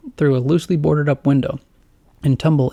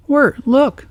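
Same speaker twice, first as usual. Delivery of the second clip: excited; 12 semitones higher, 5 dB louder than usual. Acted. Greg excited.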